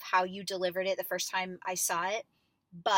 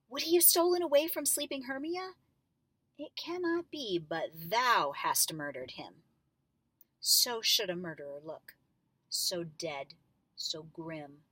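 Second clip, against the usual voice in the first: suddenly convinced. Shown as a demonstration. Sure of it, fading to a grim hush. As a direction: coach showing Hermia convinced he murdered Lysander. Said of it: "convinced herself real quickly".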